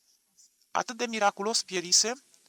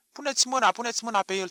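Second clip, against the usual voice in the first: loud, high, hoarse tearful cry full of hate; hoarse hate-filled yell; 6 semitones higher, 5 dB louder, faster than usual. A narrator's reading. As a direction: scream it hoarse, whining and hateful. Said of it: "țipă, cu glas bărbătesc răgușit". (țipăt răgușit, plângăreț și plin de ură)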